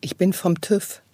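fighting back laughter on a pickup line; trying not to laugh; stifled giggles. Pretend. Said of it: "wir dürfen dabei nicht lachen". (unterdrücktes Kichern)

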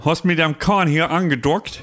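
half-successful Northern German attempt; put-on North German greeting; Northern German accent. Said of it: "Komm, Schmidti, versuch mal".

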